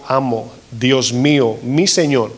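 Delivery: slow, humble plea to a master; bow your voice before your lord; reverent address. Acted. Centurion humbly calling Jesus master, slow and reverent. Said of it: "En ese sentido le dijo".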